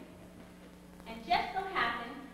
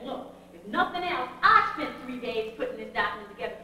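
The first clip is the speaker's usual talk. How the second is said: louder, scolding a helper who slacked; fussing at her, rising to a loud better not; stern telling-off to Joyce, louder at the end; retold scolding; 6 dB louder than usual. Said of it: "I was really fussing at her pretty bad".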